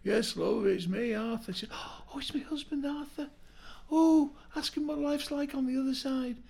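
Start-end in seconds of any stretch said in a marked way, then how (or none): 0.0-1.5 ghostly uncle voice. Acted. Dead uncle's voice in joke. 1.7-6.4 high, breathless auntie voice rising to loud; excited old auntie. Acted. Widowed auntie in joke.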